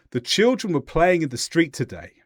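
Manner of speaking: "today" goes down in tone to close the statement; falling intonation. Shown as a demonstration. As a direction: let the pitch drop towards the end, on "street today". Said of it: "how I went down towards the end".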